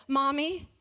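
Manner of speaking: a hint of a small child's voice; little kid answer. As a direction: answer like a three-year-old who's sure of himself. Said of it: "And Arthur said".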